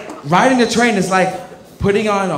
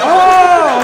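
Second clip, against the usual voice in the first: high surprised oh; 12 semitones higher, 9 dB louder than usual. Acted. Cop realising.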